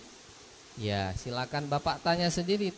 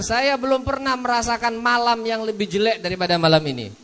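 mild Abu Bakar lament; 5 semitones higher, 4 dB louder than usual. Retold or imitated. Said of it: "Kata Abu Bakar".

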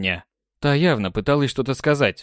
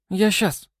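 frightened cry; 8 semitones higher than usual. Acted. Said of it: "испуганно воскликнула та".

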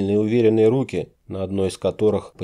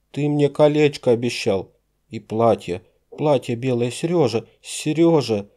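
wailing lament; 6 semitones higher than usual. A narrator's reading. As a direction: beg him not to die, in tears. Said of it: "Забилась она в крике". (девушка причитает над раненым, высоко и громко)

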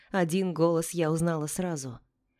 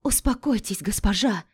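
plain reading voice

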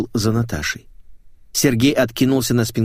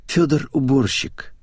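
slow, higher, obliging reply; readily explaining; 4 semitones higher, slower than usual. Acted. Girl explaining to baffled men, readily. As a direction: explain it willingly and simply. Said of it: "охотно пояснила Наташа".

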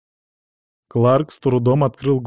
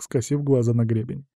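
ordinary talk

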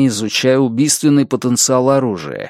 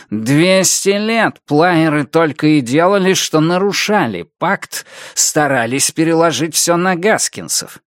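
slightly raised, aggrieved character voice; обиженный коротышка; 5 semitones higher than usual. Acted. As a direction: make it a bitter accusation. (с обидой и обвинением, повыше)

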